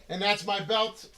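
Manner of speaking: ordinary talk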